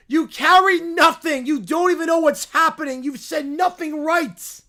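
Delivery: scornful scolding. Acted. Kid scolding teammate.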